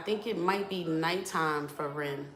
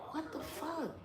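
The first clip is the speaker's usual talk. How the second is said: startled; 11 semitones higher, 9 dB quieter than usual. Real, not acted. Reacting to thunder upstairs.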